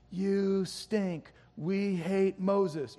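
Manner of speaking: a hint of a grumbling crowd jeering; mock chorus of complaint. The crowd jeering at Moses, lightly voiced grumbling. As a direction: sneer it out like a sulky mob. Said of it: "that great chorus of complaint".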